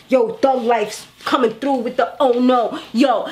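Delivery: lightly voiced street rapper swagger; a hint of a rapper's hardcore flow; thug rapper tone. Shown as a demonstration. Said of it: "trying to show you the, the tone".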